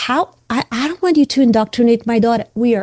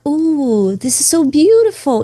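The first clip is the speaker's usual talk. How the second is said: delighted; 4 semitones higher than usual. Retold or imitated. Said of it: "makes me like".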